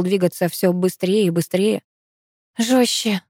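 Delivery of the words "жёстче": urging, pushed out on an exhale; an exhaled plea; breathed out. A narrator's reading. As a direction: let it out on one breath. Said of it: "выдохнула я".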